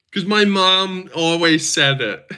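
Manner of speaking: high, slow laughing mockery; slow laughing mimicry pitched high; mocking her. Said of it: "She forget".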